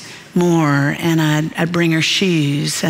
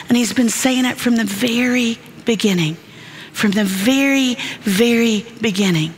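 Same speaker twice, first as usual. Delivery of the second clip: rising passion; 4 semitones higher than usual. Real, not acted. Preacher rises in pitch.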